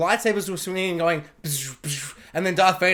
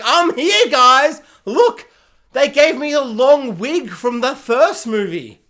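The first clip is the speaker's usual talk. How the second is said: higher, louder, cheesy cameo voice; mock cameo; 3 semitones higher, 6 dB louder, slower than usual. Qui-Gon showing up in a post-credits scene, hammed-up higher voice. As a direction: announce yourself like a cheap cameo. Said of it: "where he's like".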